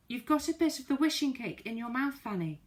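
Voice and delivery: high, loud urgent shout; excited shout at a friend with cake in her mouth. Acted. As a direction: make her realise what she has. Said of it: "shouted Moonface".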